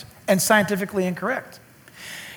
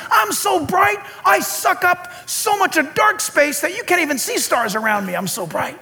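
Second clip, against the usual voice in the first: bragging star; 6 semitones higher than usual. Acted. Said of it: "he says".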